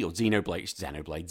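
trying out Xenoblade the UK way; UK pronunciation of Xenoblade. Shown as a demonstration. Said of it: "that's me saying it the U K way".

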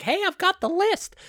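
very high, excited squeak; hammed-up messenger, far above normal pitch; high put-on voice. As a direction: call it out in a silly high voice. Someone runs up, acted out.

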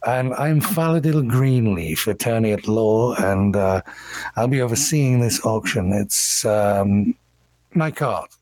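lightly voiced cultured attorney; a touch of refined, courteous speech; cultured elven gentleman. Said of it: "in very cultured common says".

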